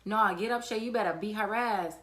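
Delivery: retold scream. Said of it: "she was screaming".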